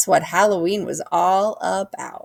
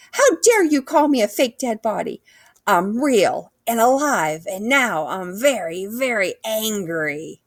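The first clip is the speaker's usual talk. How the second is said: hoog en fel, langzaam uitgesproken woede; a hammed-up outraged yell, slow at the end; angry yell; 4 semitones higher than usual. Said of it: "she yelled".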